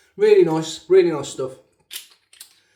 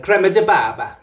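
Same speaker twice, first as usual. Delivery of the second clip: "crema de barba" in a hammed-up Italian accent, rolled and sing-song, a little louder, laughing; mock Italian accent; 2 semitones higher, 5 dB louder than usual. Shown as a demonstration. Shaving vlogger with a Black Country accent attempts Italian, laughing mock Italian accent. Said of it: "you try and talk Italian".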